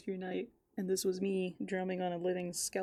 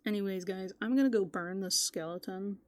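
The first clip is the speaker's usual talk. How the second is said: announcing; 6 dB louder than usual. Real, not acted. Announcing plan to viewers.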